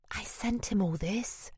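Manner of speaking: hushed, urgent stage whisper. A narrator's reading. Cassandra confiding in her colleague in the office, whispering. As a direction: whisper it, kept from the next room. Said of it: "she whispers".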